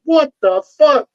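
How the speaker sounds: high, drawn-out what-the-hell; baffled shriek of disbelief; stunned disbelief. Retold or imitated. Officer baffled by the convict giving up, high stunned question. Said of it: "I'm like".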